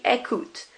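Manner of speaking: écoute with no final sound; silent ending. Shown as a demonstration. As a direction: say écoute, ending ent dropped. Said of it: "that E N T is not there".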